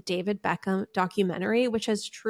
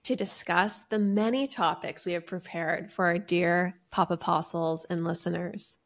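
church talk. Acted. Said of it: "It really sounds like you're starting a church talk".

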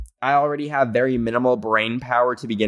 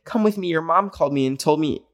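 stranger-danger imitation; 5 semitones higher, faster than usual. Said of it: "being like".

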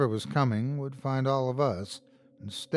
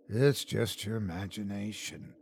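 whisper; 5 semitones lower, 8 dB quieter than usual. A narrator's reading. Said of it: "Dante whispered".

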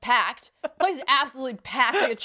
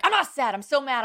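raised, indignant mock protest; mad protest; 4 semitones higher, 5 dB louder than usual. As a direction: act out insisting through angry tears. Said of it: "you start crying".

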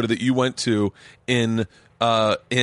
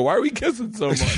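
puzzled, higher; 11 semitones higher than usual. Retold or imitated. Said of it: "I go".

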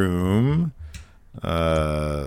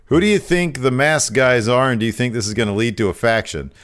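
louder mock grilling, quickening; mock berating boss; 3 semitones higher, 4 dB louder than usual. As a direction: fire questions like a nagging boss. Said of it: "He would berate us".

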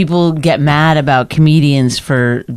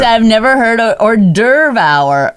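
mock innocent retelling; 6 semitones higher, slower than usual. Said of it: "I said".

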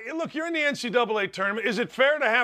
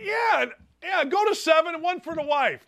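excited shout; 9 semitones higher than usual. Real, not acted. Joking shout about drink limits.

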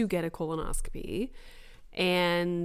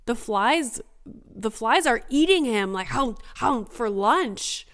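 imitating excited child; 3 semitones higher than usual. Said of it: "and he's like".

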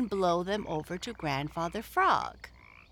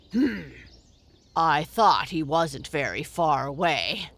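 amused grunt; 6 dB louder than usual. Acted. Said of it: "grunted Grandfather Frog with a twinkle".

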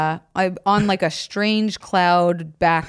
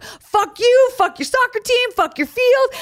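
higher, hammed-up teen cursing at coach; defiant outburst; slower than usual. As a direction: throw each curse at the coach.

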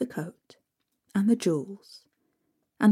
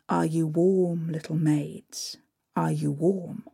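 lightly voiced Father Frost; 3 semitones lower than usual. Father Frost asks stepsisters.

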